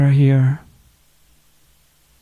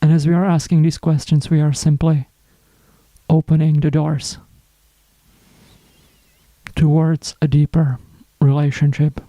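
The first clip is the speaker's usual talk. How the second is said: guided meditation. Acted. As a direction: guide them inward, unhurried, pausing between phrases. Leads a reflective check-in.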